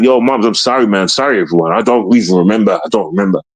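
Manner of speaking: low-pitched, subdued retold apology; apologetic. Son saying sorry to his mum and family, apologetic. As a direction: drop the pitch and own up regretfully.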